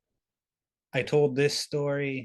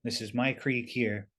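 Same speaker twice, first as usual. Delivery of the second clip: lightly voiced intimidating big being; a hint of a big, intimidating voice; intimidating creature. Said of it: "puts on a big intimidating voice".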